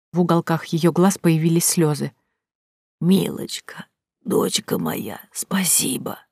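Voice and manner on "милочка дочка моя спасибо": weak, softer whispered thanks; frail whisper. A narrator's reading. Sick old woman thanking the heroine, frail whisper.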